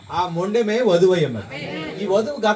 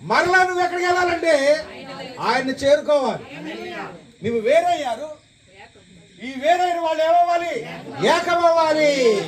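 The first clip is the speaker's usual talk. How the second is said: preaching; 7 semitones higher than usual. Real, not acted. Preacher questioning the congregation on becoming one, high preaching. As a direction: ring each phrase out to the congregation.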